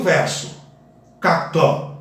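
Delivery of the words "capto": "Capto" said as two syllables, cap-to, no extra vowel; correct pronunciation. Shown as a demonstration. Teacher showing students the right way, crisp. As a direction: clip "Capto" with no vowel after the p. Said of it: "vamos fazer de conta".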